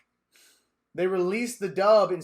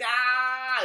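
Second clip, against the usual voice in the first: whine; 6 semitones higher, 4 dB louder than usual. Retold or imitated. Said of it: "he whines".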